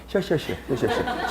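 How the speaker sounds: 시엇 with a slack jaw and a slushy sh. Shown as a demonstration. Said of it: "아래턱을 좀 빼면 되겠지".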